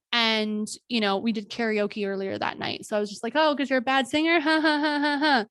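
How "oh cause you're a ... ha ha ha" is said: higher, joking voice with a forced ha ha ha; forced laugh. Retold or imitated. To her attacker in the car, a forced nervous laugh. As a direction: laugh it off to deflect.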